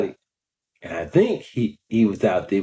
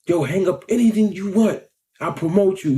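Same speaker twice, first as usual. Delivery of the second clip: raised, friendly shopkeeper offer; imitating the pizza shop owner, higher; pizza man voice; 8 semitones higher than usual. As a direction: pitch up into the generous owner. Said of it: "that man was like".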